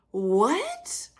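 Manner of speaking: high, soft, whispery disbelief; incredulous. Acted. Host reacting to manipulative people, softly incredulous. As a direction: squeak it out quietly, baffled.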